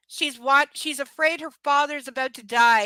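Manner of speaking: loud incredulous rant; outraged disbelief. Real, not acted. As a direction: yell at the absurd book.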